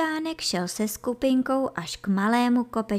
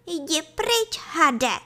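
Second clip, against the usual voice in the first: high little voice giving orders; ordering; 8 semitones higher, slower than usual. A narrator's reading. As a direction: order the snake off, high and firm. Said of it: "nařizoval Kaštánek". (rozkazovačně, vysokým hláskem)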